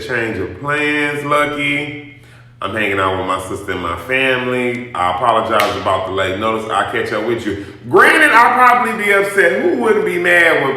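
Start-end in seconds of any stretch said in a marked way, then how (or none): 0.0-7.6 calm polite imagined reply. Pretend. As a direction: gently let her down. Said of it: "picked up the phone and said".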